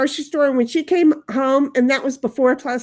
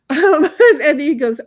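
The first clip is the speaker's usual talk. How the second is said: laughing; 2 semitones higher, 6 dB louder than usual. Real, not acted. Laughing while reading chat.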